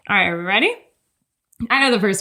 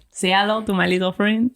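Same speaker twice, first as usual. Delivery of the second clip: put-on French accent; 3 semitones lower than usual. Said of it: "I'm not good at French accents".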